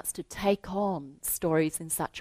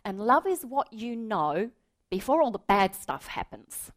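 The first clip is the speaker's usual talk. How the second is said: put-on higher earnest boy voice; child's earnest words; 4 semitones higher than usual. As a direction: say it simply like a small boy. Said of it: "He says".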